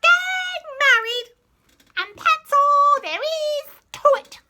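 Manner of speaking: put-on high, loud commanding old queen; old lady voice. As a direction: lay down the law like an old queen. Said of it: "the old lady voice".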